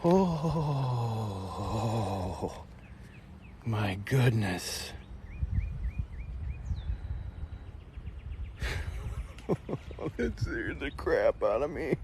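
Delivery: shaken voice. Real, not acted. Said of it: "Did you hear that in my voice".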